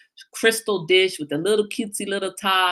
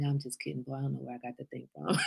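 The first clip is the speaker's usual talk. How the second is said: retold just kidding; 5 semitones lower, 14 dB quieter, faster than usual. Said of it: "I'm like".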